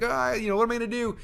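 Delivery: high-pitched imitation of a panicking presenter; hammed-up fluster, voice jumping up; freaking out. Presenter panicking as she must ask for money, imitated freak-out. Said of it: "she's freaking out".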